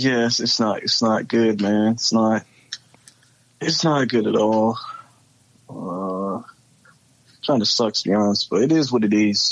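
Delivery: sad, gloomy, downcast, defeated, depressed resignation. Talking about Atlanta's losing start with another speaker, sounding sad and depressed. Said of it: "you sound sad, man".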